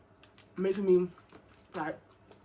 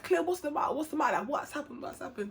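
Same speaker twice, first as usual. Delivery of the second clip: retold concern; 6 semitones higher, 4 dB quieter than usual. Best friend voiced, asking why she's crying.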